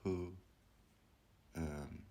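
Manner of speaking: contemplative guide, long pauses between phrases; slowing to let each question sink in; guided meditation. Acted. Guiding listeners to ask who they are, meditative voice.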